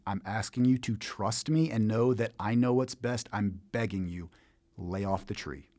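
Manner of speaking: soft, slow, hushed pleading as God. Acted. God pleading quietly with Adam to spare the tree. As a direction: beg gently, almost whispering. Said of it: "Maybe God didn't talk like that".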